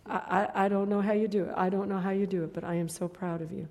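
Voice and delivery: quiet retold praise. Tearful man's quiet praise.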